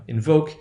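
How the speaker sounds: "invoke" with stressed long "oh". Shown as a demonstration. Teacher drilling the example, long value. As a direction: say "invoke" as in-VOKE. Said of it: "That long value will become short".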